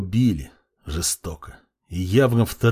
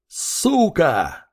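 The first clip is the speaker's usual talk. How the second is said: higher angry shout of «Сука!»; furious yell; 6 semitones higher than usual. A narrator's reading. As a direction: hurl «Сука!» as you pull the trigger. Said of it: "заорал я". (яростный крик «Сука!»)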